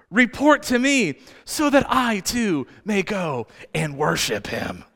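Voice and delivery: Herod's insincere request, dropping away at the end; sly mock-sincere king; feigned piety. Herod's feigned piety, audience laughs.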